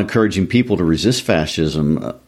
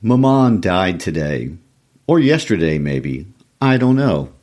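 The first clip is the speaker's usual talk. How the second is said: a hint of Camus, with deliberate pauses between phrases. Co-host reads the novel's famous first line aloud, lightly voiced Camus. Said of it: "in your best Camus voice".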